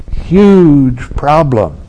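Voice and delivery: huge drawn out slow and loud, mock dread; mock dramatic huge. Teacher mocks a student's inflated worry, slow booming huge. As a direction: stretch the word huge like a mountain. Mocking serious mind inflating problem.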